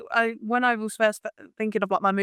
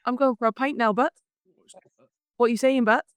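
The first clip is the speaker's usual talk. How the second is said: put-on Welsh accent. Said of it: "slowly getting better".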